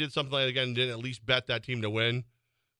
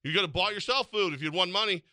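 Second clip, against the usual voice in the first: mock-stern parent, pitched up; fear of God voice; 6 semitones higher than usual. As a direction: scold like a parent, half in jest. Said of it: "Fear of God voice, man".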